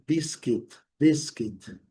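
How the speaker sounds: "biscuit" with strong first syllable, silent U; stress on first syllable. Shown as a demonstration. Teacher modelling biscuit for learners, first-syllable stress. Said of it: "sílaba forte".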